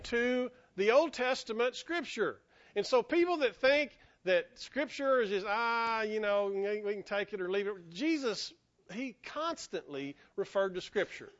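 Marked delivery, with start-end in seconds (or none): 5.5-7.7 dismissive shrug. Retold or imitated. People who think little of Scripture, casually dismissive. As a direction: toss it off as unimportant.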